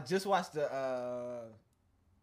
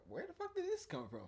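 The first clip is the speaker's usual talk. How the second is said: high-pitched, softer mock disbelief; baffled retold reaction; 5 dB quieter than usual. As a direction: retell it as a high, puzzled squeak. Retells his baffled reaction.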